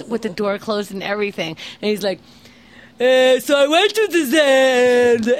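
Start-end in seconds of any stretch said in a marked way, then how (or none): 3.0-5.3 loud, higher mock Israeli neighbour; imitated yelling. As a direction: blare it like a yelling Israeli caricature. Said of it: "he starts every sentence yelling".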